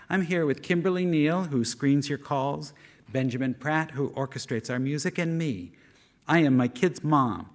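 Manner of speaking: lightly voiced radio host; brisk talk-radio host voice; Dr. Laura. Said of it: "you might recognize her".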